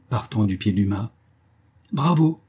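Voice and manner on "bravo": high-pitched mock congratulation; jeering. A narrator's reading. Madman jeering at his hanging captive, mockingly. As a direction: applaud mockingly with a raised pitch.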